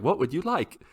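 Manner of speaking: imitating his daughter. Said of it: "And so she's like".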